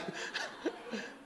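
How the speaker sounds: quiet unvoiced chuckle; soft breathy laugh. Real, not acted. Preacher amused by his pastor's remark, soft laugh. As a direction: laugh softly under the breath.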